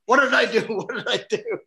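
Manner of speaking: high mock panic, self-blaming; Don. Insecure actor blaming himself for the retake, mock panic. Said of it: "That was Don's go-to".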